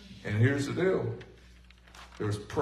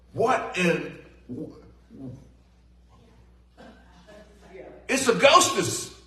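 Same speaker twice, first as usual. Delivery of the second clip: frightened cry; 7 semitones higher, slower than usual. Retold or imitated. Disciple on the boat, terrified, shrieking at the ghost. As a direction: scream it like you just saw a ghost.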